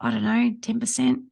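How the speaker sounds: imitating a client's hesitant, softened admission; sheepish. Imitating a buyer explaining their offer to the host, sheepish. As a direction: go small and halting, owning up to guesswork. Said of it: "go a bit sheepish and go".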